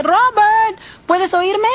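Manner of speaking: calling to the dead. Retold or imitated. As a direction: call out the name, then ask. Calls to husband at his grave. (llamando al difunto con voz alzada)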